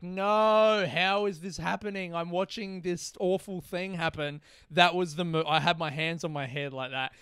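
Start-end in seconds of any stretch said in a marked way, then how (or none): 0.0-4.4 mock dismayed fan. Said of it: "you're just like".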